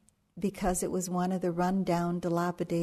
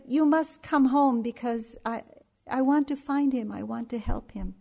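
put-on Indian accent; 4 semitones higher than usual. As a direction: imitate an excited Indian accent on the phone. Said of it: "in his kind of Indian accent".

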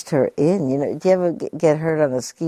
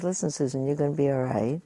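soft reassurance; 6 dB quieter, faster than usual. Retold or imitated. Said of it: "speaking in a nice, low tone of voice".

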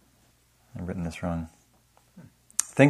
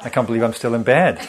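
mock self-berating; 2 semitones higher, 4 dB louder, faster than usual. Teacher voicing her own morning self-criticism, mock spiral.

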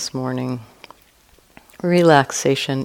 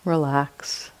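guided meditation. Real, not acted. Teacher guiding listeners to relax and expand awareness, calm meditation voice. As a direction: ease listeners through it, leaving long silences between short phrases.

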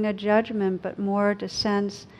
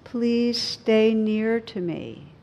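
slow tender quote; 2 semitones higher, 4 dB louder, much slower than usual. Acted. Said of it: "The poet Hafez says".

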